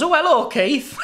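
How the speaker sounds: high, loud parrot greeting; put-on cheeky squawk of recognition; joke parrot. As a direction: land the punchline as a delighted, familiar parrot. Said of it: "and the parrot goes".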